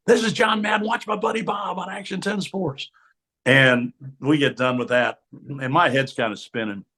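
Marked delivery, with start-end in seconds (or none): 0.1-2.9 booming Madden promo. Retold or imitated.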